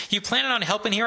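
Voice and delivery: calling out. A narrator's reading. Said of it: "I call to Roosevelt".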